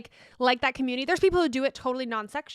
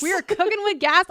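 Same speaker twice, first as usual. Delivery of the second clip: excited; 5 semitones higher than usual. Real, not acted. Echoes with more energy.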